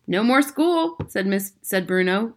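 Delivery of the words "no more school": put-on grinning boy. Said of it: "grinning a broad mouse grin".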